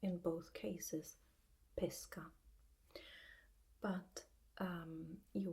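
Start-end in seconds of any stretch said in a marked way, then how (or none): 1.8-2.2 pesca with a closed 'ay'-like e; pesca, first vowel closed, not open. Shown as a demonstration. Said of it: "we pronounce it with the closed E".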